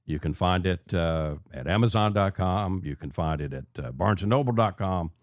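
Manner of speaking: welcoming host intro over music; radio host. Acted. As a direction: bring listeners back into the show. Host return from break.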